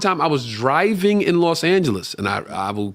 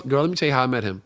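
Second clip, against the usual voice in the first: put-on quick, gossipy girlfriend voice; girl telling her friends; 6 semitones lower, 5 dB quieter, faster than usual. The girl telling her friends how they met, lightly voiced and quick. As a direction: play her bragging to her girls. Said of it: "out with her girls".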